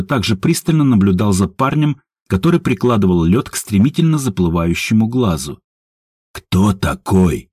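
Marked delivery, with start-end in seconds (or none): 6.3-7.5 slow, clipped repeat of the question; curt, losing patience. A narrator's reading. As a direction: bite out each word, patience running out. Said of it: "отрывисто повторил Степан, теряя терпение". (отрывисто, теряя терпение, медленно)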